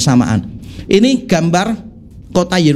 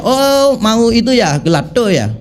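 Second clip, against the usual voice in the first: Balinese vendor saying gelato as gelado; Balinese accent; 3 semitones higher, slower than usual. Retold or imitated. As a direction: lightly imitate a Bali ice-cream seller's accent. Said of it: "itu aksennya Bali".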